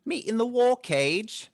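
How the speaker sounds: high, loud, slow birdman voice; hooded Tengu. Acted. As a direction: announce it slowly as a high-pitched bird creature. Game master voices hooded Tengu.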